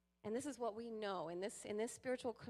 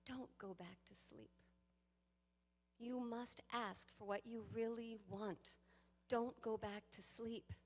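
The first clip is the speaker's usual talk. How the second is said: hushed slow recitation; Rumi quote; slower than usual. Retold or imitated. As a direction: read the poet's lines gently and slowly. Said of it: "He says".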